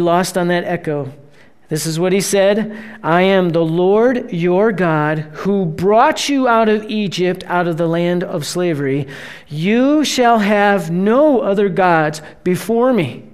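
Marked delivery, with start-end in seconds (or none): 3.0-13.2 slow, weighty voice of God's words; the preacher voices God's command, slow and solemn; solemn scripture reading. Acted. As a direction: read it slowly with gravity.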